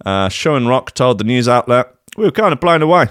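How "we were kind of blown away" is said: higher-pitched bad Canadian accent; failed Canadian accent. Podcast host quoting Sean Rock, failed Canadian accent. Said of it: "that's not a Canadian accent".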